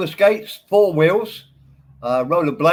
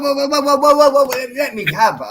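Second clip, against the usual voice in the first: calling for a stop; 9 semitones higher than usual. Real, not acted. Cutting in to stop him.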